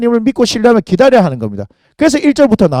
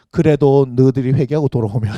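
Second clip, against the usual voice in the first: lower, subdued voice of forgiveness; relenting God; 7 semitones lower, 3 dB quieter than usual. Retold or imitated. Preacher voices God relenting toward sinful people, gently. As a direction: drop low, as God softening toward the people.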